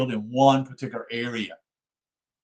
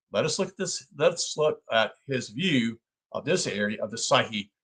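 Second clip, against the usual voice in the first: measured, formal book reading; reading aloud. Acted. Lecturer reading a psychology book to listeners, measured read-aloud. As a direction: read the text out in deliberate phrases.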